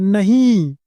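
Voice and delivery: a loud, shocked cry of no; shouted no. Acted. Guard and young master cry out as the horse eats the pill. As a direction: yell it out in horror. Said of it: "जोर चिल्लाकर बोलते हैं".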